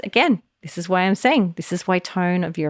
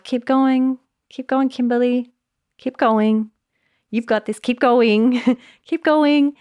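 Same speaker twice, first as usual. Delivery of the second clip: encouraging cheer; 7 semitones higher than usual. Shown as a demonstration. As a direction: cheer yourself on with a laugh. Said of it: "Same words, totally different effect".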